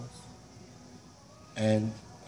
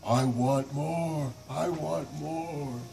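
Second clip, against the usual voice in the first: greedy monster; 3 semitones higher, 3 dB louder, much slower than usual. Acted. Monster demands more.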